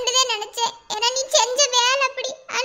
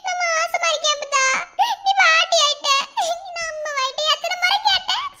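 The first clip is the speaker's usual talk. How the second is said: happy news told through tears; tearful. Acted. Young wife tells elder of a grandchild coming, tearful. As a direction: catch sobs between the phrases. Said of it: "அழுகாத".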